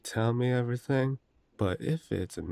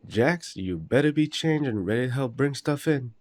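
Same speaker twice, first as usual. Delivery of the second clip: calling out loud; 5 semitones higher, 4 dB louder than usual. Acted. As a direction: shout across the house, raised and loud. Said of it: "You don't need to shout".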